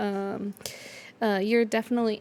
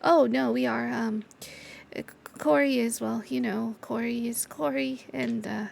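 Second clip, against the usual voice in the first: shy Gouda. Acted. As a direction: stumble shyly over the words. GM voices Gouda.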